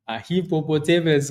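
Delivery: hippopotamus as hippo-po-TAY-mus; own pronunciation. Shown as a demonstration. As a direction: say hippopotamus stressing a long "tay". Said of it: "I always called it a hippopotamus".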